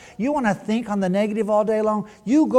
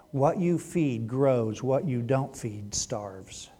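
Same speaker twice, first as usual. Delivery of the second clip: slow, soft, weighty; slow emphatic proverb; slow maxim; 5 semitones lower, 6 dB quieter, much slower than usual. Real, not acted. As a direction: let each word land slowly. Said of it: "slow maxim".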